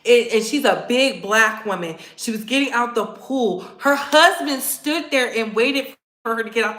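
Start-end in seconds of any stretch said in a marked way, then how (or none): none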